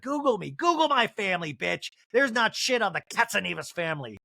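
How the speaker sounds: mock gangster, starting high then settling; hammed-up tough family defence. The speaker defending her family, mock gangster challenge. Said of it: "her saying all this does really sound gangster".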